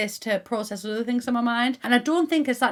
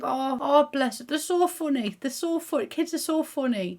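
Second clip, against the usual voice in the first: doting on toddlers; 5 semitones higher than usual. Retold or imitated. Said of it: "and I just think".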